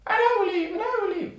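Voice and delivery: very high, squeaky comic voice; another soldier chiming in. Acted. Soldiers joining the threat to the king, tiny squeaky voice. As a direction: pipe up shrilly from the crowd. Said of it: "there's a lot".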